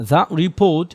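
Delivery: "report" as ripot, the learner's slip; wrong way. Shown as a demonstration. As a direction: report said with a short flat ri. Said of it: "the report না".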